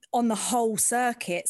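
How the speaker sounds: ordinary delivery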